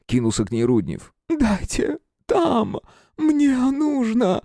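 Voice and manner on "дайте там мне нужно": very high, slow, pained woman's voice; croaked in agony. A narrator's reading. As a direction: gasp it out in agony. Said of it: "прохрипела женщина". (прохрипела в муках)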